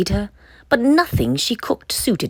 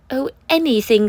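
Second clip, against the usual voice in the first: higher, sighed anything; a weary hungry sigh; 6 semitones higher than usual. Acted. Hungry Frida giving in to her parents, higher sigh. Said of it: "sighed Frida".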